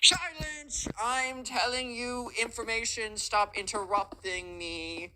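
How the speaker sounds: commanding shout. Retold or imitated. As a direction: bark at the class for silence. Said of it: "He's like".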